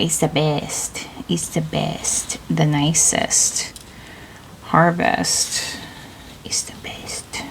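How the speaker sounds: soft, slow mock Nacho Libre accent, fading to a whisper. Tarot reader imitating Nacho Libre's accent for viewers. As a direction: drawl it like the Nacho Libre wrestler. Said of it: "like, accent".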